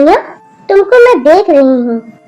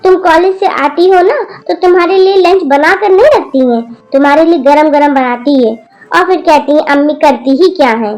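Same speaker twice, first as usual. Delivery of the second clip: scolding grandmother. Acted. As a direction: tell off the rude granddaughter. Grandmother's long angry scolding. (पोती को गुस्से में डांटती दादी)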